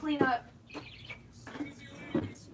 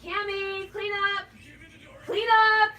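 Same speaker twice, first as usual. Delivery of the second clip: loud higher call across the room; 6 semitones higher, 5 dB louder than usual. Real, not acted. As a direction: shout it to Cam in the other room. Calling to Cam.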